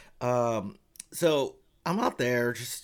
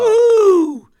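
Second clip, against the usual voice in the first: much higher, much louder whoop; crowd cheer; 16 dB louder than usual. Retold or imitated. Audience greeting the director, loud whoop. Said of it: "And we're like".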